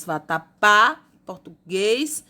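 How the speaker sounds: "vatapá, português" slowly, landing on PÁ and GUÊS; stressed last syllables. Shown as a demonstration. Teacher correcting question A, stressed endings in "vatapá, português". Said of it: "última sílaba tônica acentuada".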